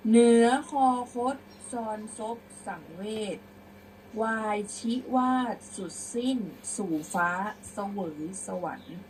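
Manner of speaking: loud opening settling to the close; prose-style recitation. Shown as a demonstration. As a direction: project the final verse, then bring it down. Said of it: "เดี๋ยวครูจะอ่านเป็นร้อยแก้ว".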